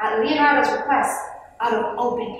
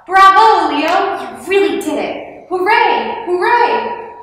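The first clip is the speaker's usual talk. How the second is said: high, loud jubilant cheers; big, high-pitched bravo and hoorays; crowd cheering; 8 semitones higher, 9 dB louder, slower than usual. A narrator's reading. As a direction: cheer like a whole delighted crowd. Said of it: "A cheer rose from the crowd".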